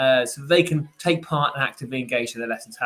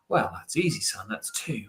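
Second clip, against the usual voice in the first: lower, softer know-it-all dad voice; smug parent; 7 semitones lower, 5 dB quieter than usual. Retold or imitated. Parent answers child's easy sum, lower smug dad voice. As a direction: answer like a proud, unbothered father. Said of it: "you take it on board and you go".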